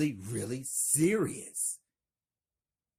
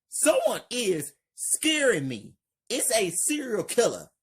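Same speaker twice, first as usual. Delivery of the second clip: high, loud and fast panicked yell; frightened yell; 11 semitones higher, 4 dB louder than usual. Acted. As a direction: blurt it out in a panic. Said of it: "Marcus yells".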